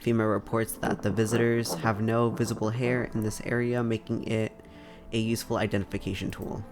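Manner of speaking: measured newsreader delivery; news read. Acted. Reads in-game news broadcast.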